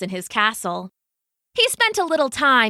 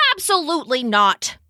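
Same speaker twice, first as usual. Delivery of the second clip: imperious; 3 semitones higher than usual. Acted. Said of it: "in his most imperious voice".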